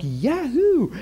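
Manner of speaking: a quick, joyful whoop; gleeful cheer. Retold or imitated. Retelling feeling healed, celebrating.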